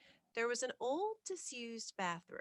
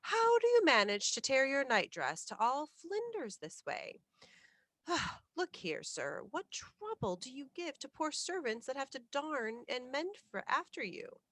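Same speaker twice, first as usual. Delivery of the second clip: put-on higher, louder scolding of a careless boy; irritated scolding housekeeper; 6 semitones higher, 4 dB louder than usual. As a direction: grumble at the boy with a weary sigh. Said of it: "she broke forth rather irritably".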